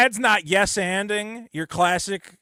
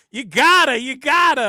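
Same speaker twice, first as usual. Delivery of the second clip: higher, louder, pushy repeat; insistent parent shout; 8 semitones higher, 8 dB louder than usual. Retold or imitated. Parents pushing their kid to confess, loud insistent voice. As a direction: hammer it like a nagging parent.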